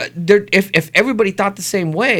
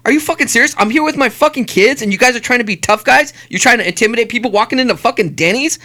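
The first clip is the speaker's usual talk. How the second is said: indignant, higher-pitched retold outburst; pissed off; 4 semitones higher than usual. Dad with kids confronts tough guys, pissed off. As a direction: berate them in outraged disbelief. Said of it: "I get pissed".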